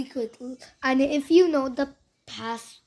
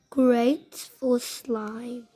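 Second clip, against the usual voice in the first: slow, lightly put-on Australian accent; 2 semitones lower, much slower than usual. Child reading the glue label to viewers, slow Australian accent. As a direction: draw it out in amateur Australian. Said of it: "like, Australian accent for some reason".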